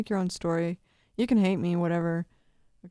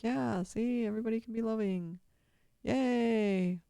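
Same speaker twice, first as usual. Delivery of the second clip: higher, gentle cheer; lightly voiced dragon; 4 semitones higher than usual. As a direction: play a pleased dragon, lightly pitched up. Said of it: "And the dragon's like".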